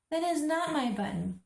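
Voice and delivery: read-aloud pretend shout. A narrator's reading. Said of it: "shouted Toad".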